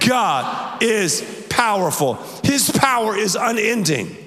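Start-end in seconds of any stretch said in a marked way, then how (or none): 0.1-2.2 congregational shout. Real, not acted. Pastor has the church repeat it, shouting. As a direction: shout it slowly, word by word. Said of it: "Say it again".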